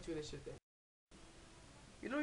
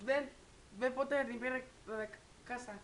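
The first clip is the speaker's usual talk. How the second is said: raised, brisk mom voice in Spanish; mom bossing; 4 semitones higher than usual. Retold or imitated. Mom tells bored kid to clean, a hint of brisk command. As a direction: hand out a chore like a busy mom. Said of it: "She's like".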